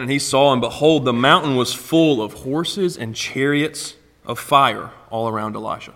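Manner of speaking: measured, earnest Bible reading from the pulpit; scripture reading. Acted. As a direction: read the passage to the congregation with weight. Reads scripture aloud.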